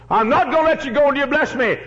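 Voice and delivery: high, loud pleading Jacob; desperate cry. Acted. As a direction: hold on and refuse to let go. Jacob wrestling the angel.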